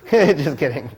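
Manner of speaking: slow words through a real laugh. Real, not acted. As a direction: laugh it off, drawn out and loud. Jokes after apologizing to Stephanie.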